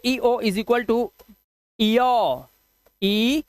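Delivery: teacher to students noting the rule, slow dictation. Shown as a demonstration. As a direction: rule spelled out slowly, word by word. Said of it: "क्या rule बनाओगे?".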